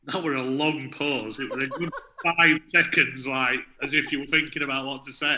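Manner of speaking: teasing through laughter; laughing. Real, not acted. Teasing his co-host about the long pause, laughing. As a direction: chuckle while ribbing him.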